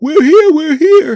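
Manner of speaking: very loud, very high-pitched yelling. Retelling running late to a show, re-enacting yelling up the steps. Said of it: "I'm yelling up the steps".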